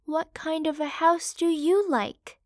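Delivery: ask, hoping for a good answer; hopeful. Acted. Mother pig turning to her youngest son, hopeful. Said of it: "asked hopefully".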